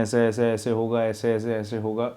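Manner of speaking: flat monotone. Shown as a demonstration. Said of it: "आपका जो audio है बहुत फ्लैट है".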